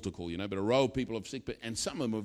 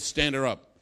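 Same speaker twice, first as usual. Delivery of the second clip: put-on Yorkshire accent. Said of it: "in his Yorkshire accent".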